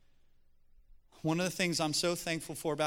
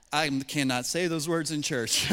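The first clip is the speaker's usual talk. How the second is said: laughing quote; 5 dB louder than usual. Retold or imitated. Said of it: "And he's like".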